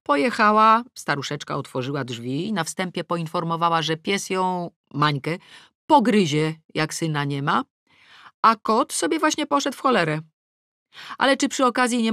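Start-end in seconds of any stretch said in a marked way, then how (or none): none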